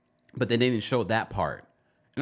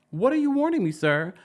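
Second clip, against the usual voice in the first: high indignant what are you warning me sir; indignant challenge; 9 semitones higher than usual. Pretend. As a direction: demand it back at him, offended.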